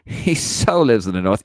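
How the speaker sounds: laughing, teasing sassy emphasis on so; sassy mock. Teasing a caller about living up north, sassy. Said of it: "It's very sassy, isn't it?".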